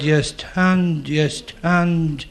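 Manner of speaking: halting sergeant, dragging out each word; mock army sergeant stuck on his words; imitating a stutter. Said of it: "he stuttered very badly".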